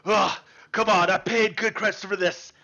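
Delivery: straining, frustrated grunt as he pushes; mock effortful complaint. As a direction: grit it out mid arm wrestle. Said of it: "He's like".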